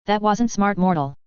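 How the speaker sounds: cold, mocking vampire voice; menacing vampire. A narrator's reading. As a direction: toy with him like a predator. Vampire taunts Dan.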